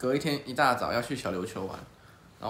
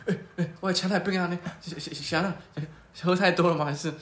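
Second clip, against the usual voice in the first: put-on confused old man; 5 semitones higher than usual. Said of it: "他说".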